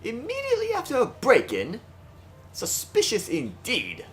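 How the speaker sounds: a hint of a cold, haughty lord; haughty noble voice.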